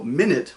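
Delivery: the later minute said as my-NEWT; second minute pronounced my-NYOOT, end stressed; stress on second half. Shown as a demonstration. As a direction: stress the second syllable of the minute that means small. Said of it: "If I put the emphasis".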